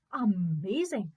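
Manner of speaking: slow, drawn-out amazement; amazed servant. Acted. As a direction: stretch it out in wonder.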